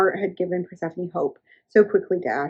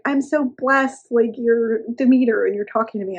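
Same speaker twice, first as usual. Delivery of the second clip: gushing fan; 3 semitones higher than usual. Retold or imitated. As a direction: gush like a starstruck fan. Starstruck nymph gushing.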